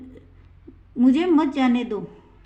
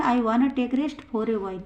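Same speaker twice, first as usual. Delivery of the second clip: slow, clear example for students; teacher reading it out slowly to the class; slow model sentence; 3 dB quieter, much slower than usual. Shown as a demonstration. Teacher models the sentence, slow and clear. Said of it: "तो क्या बोलेंगे?".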